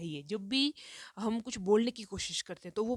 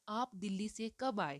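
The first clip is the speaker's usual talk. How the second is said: कब stressed as the question word; teacher modelling a question. Shown as a demonstration. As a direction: lean on कब. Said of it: "यहाँ प्रश्न है".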